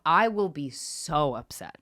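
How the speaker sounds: slow, weighted warning; making it clear. Retold or imitated. Daughter warning both parents, slow and clear. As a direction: drag out each word as a firm threat. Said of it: "I made it clear to both my parents".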